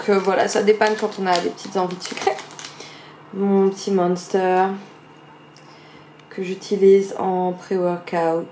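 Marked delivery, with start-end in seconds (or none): 3.3-8.5 Monster et pré-workout dits avec un accent anglais appuyé. Shown as a demonstration. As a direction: prononce Monster et workout à l'anglaise, un peu frimeur. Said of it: "avec mon super accent". (accent anglais exagéré sur les mots Monster et workout)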